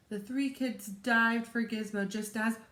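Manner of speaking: lively, expressive picture-book read-aloud; story narration. A narrator's reading. Teacher reads a chapter book to children, animated story narration. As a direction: read it to children with dramatic pauses.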